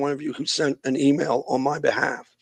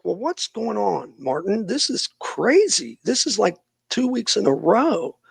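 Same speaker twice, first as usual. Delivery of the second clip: slow, higher, disbelieving; retelling his own baffled protest, drawn out and higher; incredulous; 5 semitones higher, 4 dB quieter than usual. Retold or imitated. Telling Martin it's crazy, slow and higher. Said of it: "I was like".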